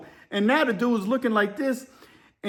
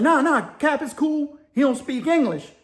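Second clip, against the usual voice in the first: higher-pitched, placating retold plea; hurried reassurance; 7 semitones higher than usual. Inmates to officer reaching for mace, high placating plea. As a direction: talk the officer down in a raised voice.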